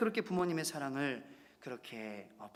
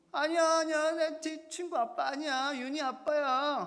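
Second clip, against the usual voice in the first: put-on much higher, louder child's pleading wail; crying little daughter; 12 semitones higher, 6 dB louder than usual. Pastor imitating his daughter crying, high tearful child voice. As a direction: squeak it like a sobbing little girl. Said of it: "이 말을 듣고 울어요".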